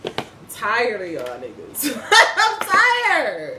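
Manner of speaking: laughing exasperation. Real, not acted.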